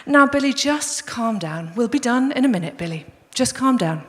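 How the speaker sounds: unhurried, measured soothing; really calm dad. Retold or imitated. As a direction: keep it mild and patient. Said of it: "still being really, really calm".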